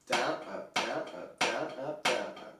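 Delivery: DOWN punched, up light and short; counting downstrokes with accents. Shown as a demonstration. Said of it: "same thing with the left".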